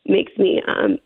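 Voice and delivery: a touch of real emotion, halting; real upset breaking up the sentence; choked up. Real, not acted. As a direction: falter as the memory still gets to you. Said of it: "it still gets me".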